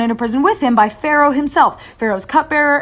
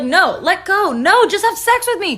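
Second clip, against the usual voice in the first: mock pleading; 9 semitones higher, 3 dB louder, slower than usual. Wife grabbing Joseph.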